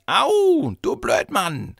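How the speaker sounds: put-on loud, high child's yelp of outrage; ringing outcry. A narrator's reading. Hurt child yells at another across the room, outraged. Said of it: "quer durch den Raum erschallte".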